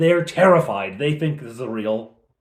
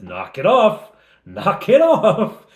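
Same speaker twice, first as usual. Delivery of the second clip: annoyed warning; 7 semitones higher, 7 dB louder, slower than usual. Acted. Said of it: "Fleetwood says".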